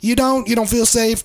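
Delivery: sarcastic disbelief, voice jumping high; incredulous. Real, not acted. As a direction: scoff at it in disbelief. Scoffing at the quoted complaint.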